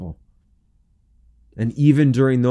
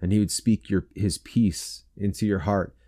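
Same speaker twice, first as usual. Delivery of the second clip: earnest prayer; 3 semitones lower than usual. Real, not acted. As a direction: begin hushed and gentle, gradually firmer. Prays aloud for the listeners.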